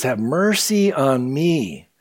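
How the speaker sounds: soft, slow retold plea; understated anguish. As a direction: stretch the plea out softly. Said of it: "how much anguish she was really in".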